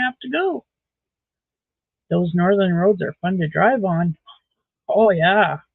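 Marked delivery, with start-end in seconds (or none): 2.1-4.2 dry sarcastic remark. Real, not acted. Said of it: "catch the sarcasm in my tone". 4.9-5.6 sarcastic oh yeah; drawn-out sarcastic agreement. Real, not acted. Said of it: "catch the sarcasm in my tone".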